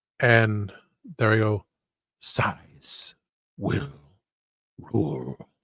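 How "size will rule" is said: deep, breathy, hushed near-whisper. Pitching a scene's final line, showing it: deep voice. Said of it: "And the deep voice".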